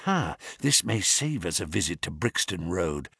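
whispered. A narrator's reading. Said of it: "whispered Holmes".

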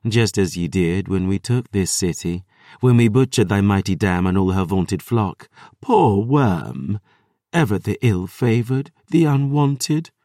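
a lightly voiced gloating vampire; sneering vampire Lily. Vampire Lily taunts the princess.

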